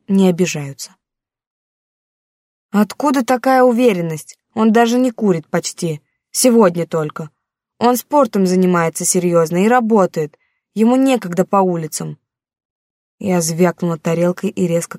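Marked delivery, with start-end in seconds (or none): 2.8-12.2 a hurt daughter pushing back at her mother; teen daughter, defensive. Acted.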